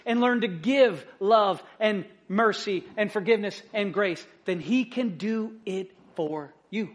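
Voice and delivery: building preacher's cadence, then easing down; preaching with a swell and release. Acted. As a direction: rise toward the climax of the promise, then settle. Preaching with rising force.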